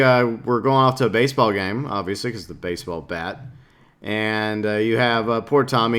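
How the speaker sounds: usual speaking voice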